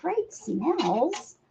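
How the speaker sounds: a hint of a slow, soft cat voice; voicing the cat. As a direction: lightly speak for the cat, slowly and softly. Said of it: "She's like".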